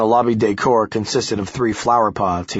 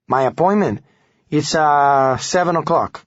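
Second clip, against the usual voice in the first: put-on higher, faltering Hispanic accent; hesitant Hispanic accent; 6 semitones higher, 3 dB louder than usual. Guzman invents an excuse, hesitant Hispanic accent. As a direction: make up the time in a Hispanic accent. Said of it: "A man with a thick Hispanic accent answered".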